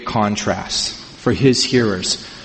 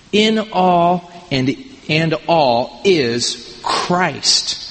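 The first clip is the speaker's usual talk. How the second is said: emphatic preaching; 4 semitones higher than usual. Acted. Preacher re-reading the verse emphatically.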